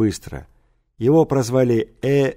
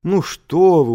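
put-on higher, louder courteous old man; courteous toothless mumble; 6 semitones higher, 5 dB louder, slower than usual. A narrator's reading. Old teacher reassures an affronted pupil, courteous mumble. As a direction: protest politely in a lightly mumbled old voice. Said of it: "учтиво зашамкал Кириков".

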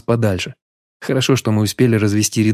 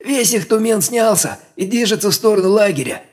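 high breathless scout's report; excited report; 11 semitones higher than usual. A narrator's reading. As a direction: rush the news out. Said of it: "возбуждённо доложил разведчик". (возбуждённый доклад разведчика)

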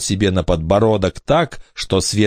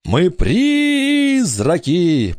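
very slow, high ghostly moan; voice from the grave; 10 semitones higher, much slower than usual.

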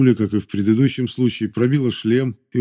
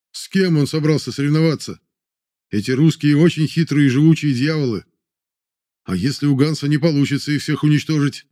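exploding in anger; 5 semitones higher, 3 dB louder than usual. Acted. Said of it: "Взорвался полковник".

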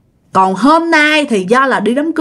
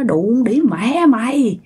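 retold cursing husband; 3 semitones higher than usual. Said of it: "mọi người mới nghe tiếng ổng chửi".

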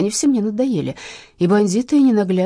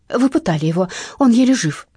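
mock tragic; 4 semitones higher, 5 dB louder than usual. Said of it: "с трагической интонацией".

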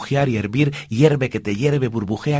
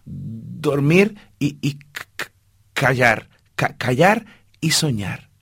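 stammering; slower than usual. Acted. Mouse stammers his answer.

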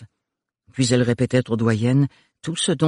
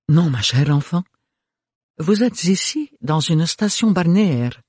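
higher grande dame with rolled Rs; grandly rolled Rs; 6 semitones higher than usual. A narrator's reading. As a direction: roll every R superbly. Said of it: "faisant rouler superbement ses airs".

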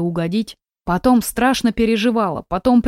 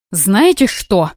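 firm; 3 dB louder, much slower than usual. Acted. Marina finally loses patience.

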